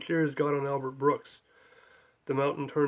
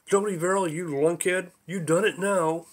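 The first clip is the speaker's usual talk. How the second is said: calling out; 3 semitones higher, 3 dB louder than usual. Acted. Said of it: "a voice called out again".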